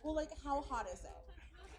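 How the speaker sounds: a hint of a hesitant city diner, slow; fussy city person. San Franciscan questioning hot food, lightly mocked and drawn out. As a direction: stretch out the question warily. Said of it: "somebody from the city".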